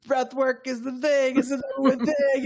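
oversell it like a true believer; mock enthusiasm. Mocking what listeners expect him to say, hammed-up zeal.

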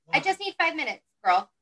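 real exasperated plea. Real, not acted. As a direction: plead for a little time, pitched well up. Asks interrupting child for time.

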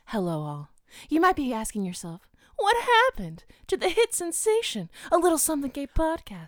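announcer voice. Shown as a demonstration. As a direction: read it like a show announcer. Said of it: "you're doing so good".

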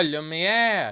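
put-on Lumiere with a French accent. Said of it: "Oh, there we go".

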